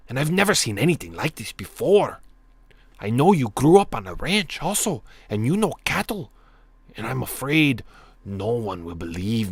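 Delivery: exaggerated, sing-song Mexican cholo accent; hammed-up Mexican accent with swooping pitch. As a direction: plead as the rancher in a put-on Mexican accent. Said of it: "I gotta stop the Mexican accent".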